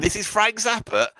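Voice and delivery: a dad who can't believe who it is; stunned dad. Retold or imitated. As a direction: imitate dad's disbelief at the name. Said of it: "And he went".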